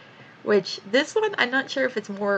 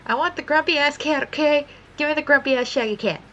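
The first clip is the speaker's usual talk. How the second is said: higher, louder insistence; eager demand; 7 semitones higher, 5 dB louder than usual. Retold or imitated. Telling her tattoo-artist friend which design she wants, eager. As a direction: insist like a kid in a shop.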